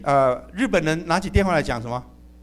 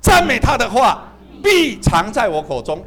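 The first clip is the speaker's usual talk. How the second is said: slow scripture reading; 4 dB louder, slower than usual. Shown as a demonstration. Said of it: "我们再读一遍".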